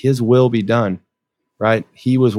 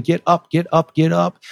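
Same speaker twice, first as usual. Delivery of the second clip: retold scream; 7 semitones higher than usual. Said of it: "they're screaming".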